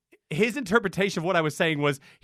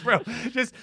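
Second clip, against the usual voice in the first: exasperated plea; 5 semitones higher, 4 dB louder than usual. Retold or imitated. Imagined plea to conductor.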